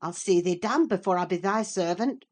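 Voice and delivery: growled. A narrator's reading. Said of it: "growled the lad".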